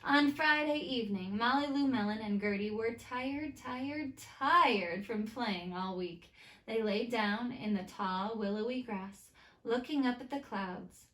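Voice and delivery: put-on lively read-aloud to children; story narration. A narrator's reading. Teacher reading a picture book to her students, lively storytime.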